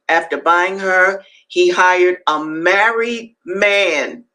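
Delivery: deliberate, emphatic narrative reading; dramatic reading aloud. A narrator's reading. Host reading Frederick Douglass to listeners, emphatic reading. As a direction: read it out, weighting key words.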